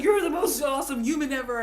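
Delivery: lightly voiced adoring cow; voicing the cow. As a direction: answer back as the loving cow. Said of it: "And the cow's like".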